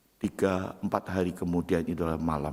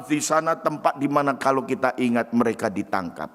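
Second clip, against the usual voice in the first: normal talking voice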